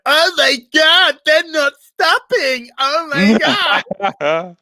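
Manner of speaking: high, slow, stunned disbelief; shocked gasp. Retold or imitated. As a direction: gasp it out, wide-eyed and high. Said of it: "just like".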